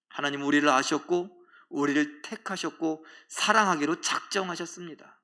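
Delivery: normal talking voice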